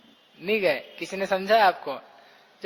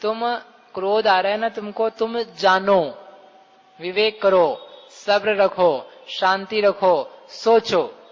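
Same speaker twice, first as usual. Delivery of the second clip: slow, patient calming words; slow, gentle counsel to someone angry; soothing advice; slower than usual. Retold or imitated. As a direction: talk an angry man down slowly. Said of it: "वो क्या कह रहा है उससे".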